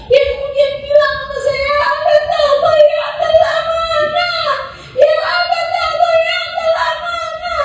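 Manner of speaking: high, sing-song wailing preaching; impassioned sermon wail. Acted. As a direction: cry the story out in a lilting lament. Father's confession at the climax.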